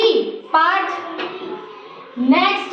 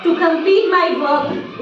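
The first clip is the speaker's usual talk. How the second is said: slow, spaced example sentence; teacher slowly dictating an example; slow model sentence; much slower than usual. Shown as a demonstration. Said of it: "जैसे".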